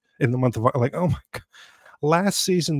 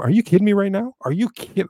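outraged disbelief; 7 semitones higher than usual. Real, not acted. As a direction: burst out as if the stat is a joke. Outraged at player's numbers.

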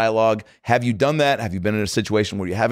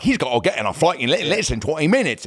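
higher-pitched cartoon British manager; British caricature; 5 semitones higher than usual. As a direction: fuss like a caricatured little British minder. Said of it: "a caricature of a, of a British guy".

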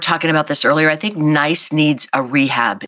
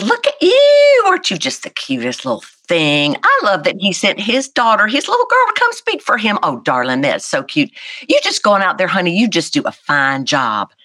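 imitating the opponent; 5 semitones higher than usual. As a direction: play the opponent drawing out his flattery of a little girl. Retelling the opponent's creepy flattery.

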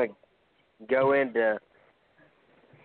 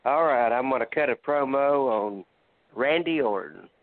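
wrestling promo. Acted. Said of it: "and cut your promo".

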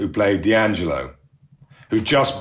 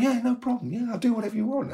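mock sugary agreeable voice, much higher and softer; too-nice Seth; 5 dB quieter, faster than usual. Imitating Seth being suspiciously nice, high and soft. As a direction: play the suspiciously sweet co-star. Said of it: "God, this is weird".

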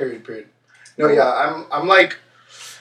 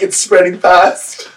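slow, louder mock horror line; mock alarm; 4 semitones higher, 5 dB louder, much slower than usual. Joking about the spill with friends, slow mock horror. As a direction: drag it out like a horror movie warning. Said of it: "I'm like".

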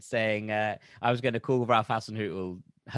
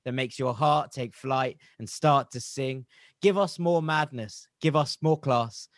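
poem recital. Acted. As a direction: recite it like a heartfelt New Year's poem. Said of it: "start with a poem".

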